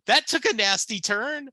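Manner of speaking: high, loud mock shock at a dark lyric; imitating wife's startled gasp of disbelief; shocked exclamation. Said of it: "She's like".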